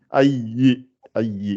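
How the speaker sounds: Ayi with the final I clearly sounded; clearly articulated Ayi. Shown as a demonstration. Teacher correcting a pupil, careful Ayi. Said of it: "faut bien articuler pour qu'on entende le I".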